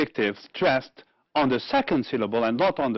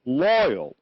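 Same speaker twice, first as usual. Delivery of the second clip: loyal, stressed on LOY, falling tone; stress on first syllable. Shown as a demonstration. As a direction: lean firmly on the LOY of loyal. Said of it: "mark the stressed syllable".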